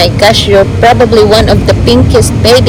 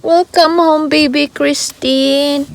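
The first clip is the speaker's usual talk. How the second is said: welcoming someone home; 4 semitones higher, 4 dB quieter, slower than usual. Real, not acted. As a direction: coo it gently to a newborn. Bringing newborn baby home.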